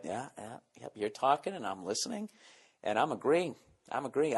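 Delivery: half-listening mumble, humoring someone; absent agreeing. Retold or imitated. Nodding along to party chatter, soft distracted murmur.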